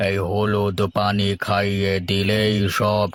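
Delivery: a village healer's slow, grave pronouncement; lightly voiced healer, drawn-out and solemn; slow kabiraj. Healer explains spirit gone. (ধীর গম্ভীর কবিরাজের কণ্ঠ)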